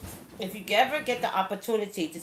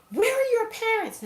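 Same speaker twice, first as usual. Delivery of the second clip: high, louder mimicked yell; acted shrieking-neighbor demand; retold scream; 5 dB louder than usual. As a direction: imitate a screaming woman questioning a child. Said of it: "I looked at the woman screaming".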